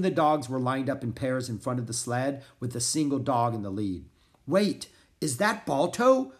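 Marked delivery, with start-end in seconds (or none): 4.5-6.3 high, slow, raised question; excited shout. A narrator's reading. Annie spotting the lead dog, excited shout. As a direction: shout out in recognition. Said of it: "shouted Annie".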